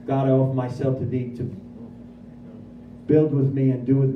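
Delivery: solemn recitation rising toward the Amen; recited prayer. Retold or imitated. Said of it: "We do the third step prayer".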